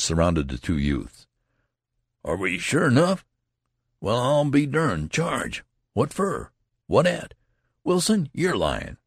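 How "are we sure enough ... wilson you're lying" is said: incredulous soldiers. Acted. Soldiers disbelieving the news.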